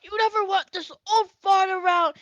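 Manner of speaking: put-on a loud, huffy old man who feels unwanted; grumpy old grandpa. Elven grandpa grumbling at his grandson, high and loud. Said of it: "He goes".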